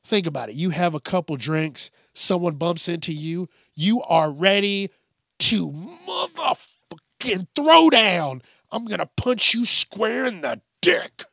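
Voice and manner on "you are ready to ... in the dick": mock drunk aggression. Imitating a drunk who gets bumped, mock fight-ready. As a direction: hype up like a drunk ready to brawl.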